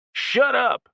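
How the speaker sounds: high, loud snapped yell; furious shout. A narrator's reading. Randy shouting Jessica down, high and loud. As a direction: shut her down hard.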